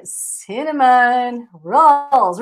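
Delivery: very slow, careful English; slow model pronunciation. Shown as a demonstration. Teacher modelling cinnamon rolls for the class. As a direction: stretch it out for repeating.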